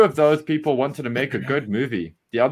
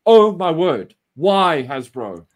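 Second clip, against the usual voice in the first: loud exasperated sigh; drawn-out why in despair; exasperated rant; 3 semitones higher, 5 dB louder, slower than usual. Real, not acted. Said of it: "just have to rant".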